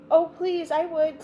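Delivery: put-on high, eager child voice; excited little girl.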